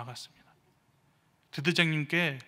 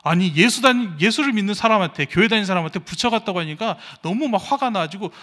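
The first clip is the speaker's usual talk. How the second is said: loud, higher, heated telling of the insult; retold outrage; 4 semitones higher, 10 dB louder than usual. Preacher recalling being called Buddha, heated and loud. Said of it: "그때 진심으로 화가 났습니다".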